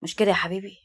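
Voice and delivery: mildly put-on affection; feigned love. A narrator's reading. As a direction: play the doting husband, lightly. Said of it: "بص لها ومثل الحب".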